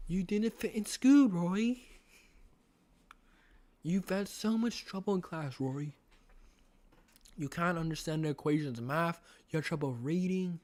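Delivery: put-on British accent; lightly acted British character; William Afton. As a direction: persuade in a British villain voice. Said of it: "do my best William Afton impression".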